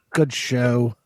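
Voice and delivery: put-on English accent; a quick mock-British remark. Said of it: "speaking of my English accent".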